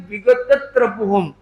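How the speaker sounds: विगत त्रपोहम with weight on the त before त्र; stress before the cluster. Shown as a demonstration. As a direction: press the last syllable of विगत. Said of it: "तो stress का तरीका क्या है". (विगत त्रपोहम, त पर ज़ोर)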